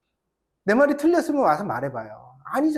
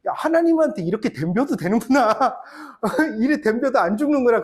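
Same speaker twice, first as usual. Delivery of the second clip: amazed thought; 5 semitones higher, 4 dB louder than usual. Retold or imitated. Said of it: "그런 생각".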